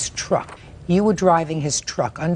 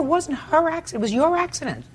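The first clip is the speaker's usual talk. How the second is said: much higher, sharper, "her" and "your" hammered; exasperated repeat; 12 semitones higher than usual. Real, not acted. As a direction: fire it back, hitting "her" and "your". Judge repeats, now much sharper.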